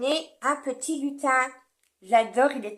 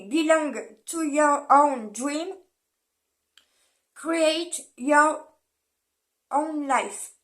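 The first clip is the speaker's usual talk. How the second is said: French accent English; 2 semitones higher, 4 dB louder, much slower than usual. Real, not acted. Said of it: "excusez-moi pour mon accent".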